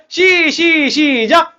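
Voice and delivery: high, stretched teasing count-in; calling a cue. Real, not acted. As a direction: stall on the first syllable, then launch. 박수 시작 구령을 늘여 외침. (길게 끌며 외치는 시작 구령)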